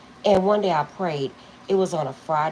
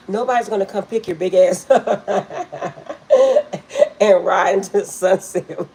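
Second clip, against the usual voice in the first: loud, high, laughing mock daughter; cracking up while quoting her; laughing through a quote; 3 semitones higher, 10 dB louder than usual. Mother retelling her daughter's teasing, loud and laughing. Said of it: "My daughter used to say".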